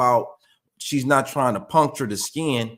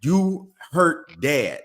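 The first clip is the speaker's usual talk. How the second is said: slow, spaced-out words; slow correction; 3 semitones higher, much slower than usual. Shown as a demonstration. Dad telling the dog it hurt, slow. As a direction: spell it out to the dog word by word.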